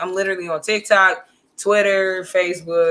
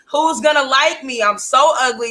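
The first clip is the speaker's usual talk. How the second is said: mock-distraught self-pity, pitched up; 4 semitones higher than usual. Teller mimics her younger self after being cheated on, mock-distraught. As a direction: wail it lightly, hammed-up teenage despair. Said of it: "like, so distraught".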